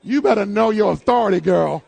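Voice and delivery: loud teasing through a laugh; laughing tease. Real, not acted. Preacher teasing Yolanda, laughing and loud. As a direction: rib her while still laughing.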